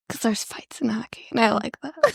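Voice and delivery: hushed unvoiced whisper. Real, not acted. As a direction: whisper it like a guilty secret. Whispered aside about liking fights.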